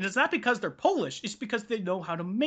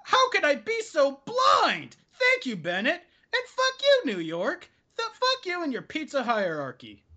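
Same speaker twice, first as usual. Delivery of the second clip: high, wide-eyed convert voice; mock enlightened customer; 6 semitones higher than usual. Customer thanking the owner, hammed-up high awe. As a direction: play the dazzled convert. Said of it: "they'll say".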